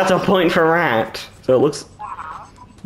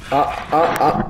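rat squeaking. Acted. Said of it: "Guys, that was my rat impression".

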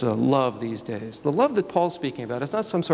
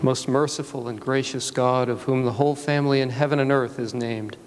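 prayer. Acted. Officiant begins prayer.

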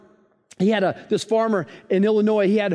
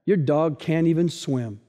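put-on grumpy old neighbor; 6 semitones lower, slower than usual. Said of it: "grumpy old neighbor goes".

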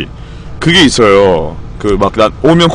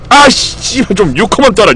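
cursing under breath; 9 semitones higher than usual. Real, not acted. Bad gacha roll while streaming.

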